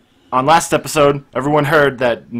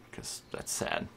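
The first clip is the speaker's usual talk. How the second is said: voiceless, much softer mock-sad aside; whispered aside; 17 dB quieter, slower than usual. Real, not acted. Self-pitying aside.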